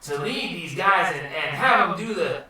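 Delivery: rambling surfer-dude voice; Finding Nemo turtle. Acted. Wizard explains his limits to guests, dude voice. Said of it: "You should be the turtle from".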